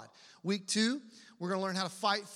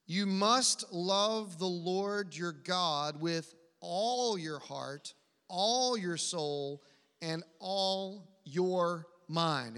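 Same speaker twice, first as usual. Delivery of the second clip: slow, weighty verse reading; scripture reading; much slower than usual. Acted. Preacher reads Jesus' answer to the congregation, slow and weighty. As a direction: stretch out each phrase of the verse deliberately.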